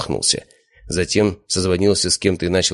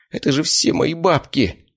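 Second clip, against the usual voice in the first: despairing wail; 10 semitones higher, slower than usual. A narrator's reading. Slavik despairing over money.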